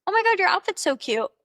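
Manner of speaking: high, bright excited compliment; gushing compliment. Shown as a demonstration. A dating coach demonstrating a compliment for the date, gushing. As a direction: gush over his outfit. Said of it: "Here are some of my go-to compliments".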